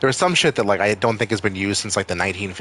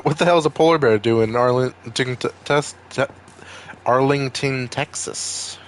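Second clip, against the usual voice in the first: put-on a light Maine accent, pitched a bit higher; 4 semitones higher than usual. Streamer baffled by snow, in a light Maine accent. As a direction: blurt it out in a mild Maine twang. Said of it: "What did I say in my main accent?".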